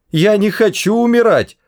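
very high, wailing protest; panicked cry. A narrator's reading. Arthur being dragged off to die, high panicked cry. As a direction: cry out in panic without much volume. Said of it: "закричал Артур".

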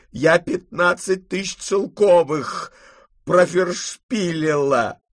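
high, loud, slow commands; imperious grandmother. A narrator's reading. Grandmother snaps at Marfa and orders Potapych to pack. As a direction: order the servants about in a temper.

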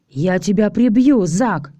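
slow, furious threat; roaring threat. Acted. Alisa threatening Zak after the kiss, mild roar. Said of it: "взревела Алиса".

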